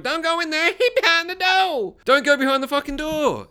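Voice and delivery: high, loud frantic yell; screaming at the movie. Acted. Viewer warning someone in the movie, high-pitched screaming. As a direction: yell a desperate warning at the screen. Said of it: "you're screaming at the movie".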